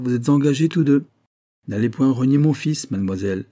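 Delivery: s'écrie plus haut et plus fort; exclamation. Acted. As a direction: proclame l'engagement avec éclat. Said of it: "s'écria le père". (le père s'écrie devant la jeune fille, voix haute et forte)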